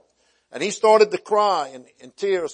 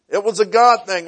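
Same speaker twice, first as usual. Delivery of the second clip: preaching emphasis; 4 semitones higher, 7 dB louder than usual. Real, not acted.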